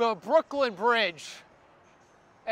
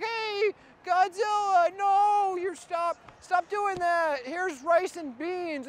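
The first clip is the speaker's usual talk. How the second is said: a higher, lightly voiced little woman scolding; little Hispanic woman; 6 semitones higher, slower than usual. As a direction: shoo the monster off kindly but firmly. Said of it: "Hispanic woman, and she's like".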